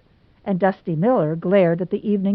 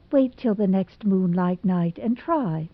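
gentle. Acted. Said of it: "said Anne gently".

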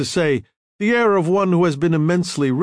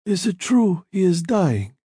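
a trace of Italian in the vowels; slight Italian accent; 6 semitones higher than usual. A narrator's reading. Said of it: "trace of an Italian accent".

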